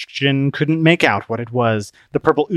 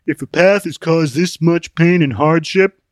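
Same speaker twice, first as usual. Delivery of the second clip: higher, louder put-on voice, aggrieved; Open-Minded, complaining; 5 semitones higher, 6 dB louder than usual. Open-Minded grumbling about the new quest, complaining. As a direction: protest in a raised character voice.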